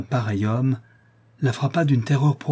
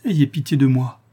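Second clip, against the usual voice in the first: frightened plea; 2 semitones higher, 4 dB louder than usual. A narrator's reading. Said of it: "de plus en plus effrayée".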